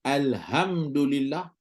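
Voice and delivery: alhamdulillah read slowly with a harsh kh; wrong kha reading. Shown as a demonstration. Teacher demonstrates the wrong reading. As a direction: drag out alhamdulillah with a rough throat kh. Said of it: "Jadi kalau baca al".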